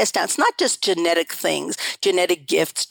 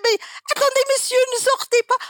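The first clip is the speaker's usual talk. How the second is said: urgent pleading; faster than usual. Retold or imitated. Begging stranger not to leave train.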